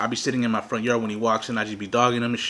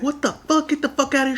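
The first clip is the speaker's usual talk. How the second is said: high-pitched mock outrage; imitated angry sister; 12 semitones higher than usual. Sister telling the gunman to leave, high imitated outrage. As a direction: mimic her ordering him out.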